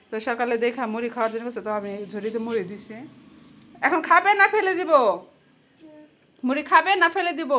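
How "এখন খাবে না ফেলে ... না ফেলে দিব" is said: scene. Real, not acted. Warns toddler to eat.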